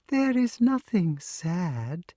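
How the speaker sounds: put-on old snake, slow and unhurried; drawn out gently, a wise serpent; slow, patient snake. Snake replies to the wart.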